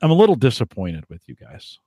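a light hint of a let-down dad; mock-disappointed father, barely put on; best dad voice. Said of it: "in my best dad voice".

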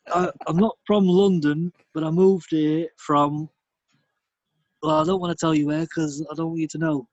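mock northern bloke. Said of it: "I tried to do London".

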